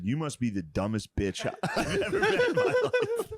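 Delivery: laughing through a mock insult; cracking up while calling her dumb. Telling about his girlfriend, laughing through the line. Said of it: "I said".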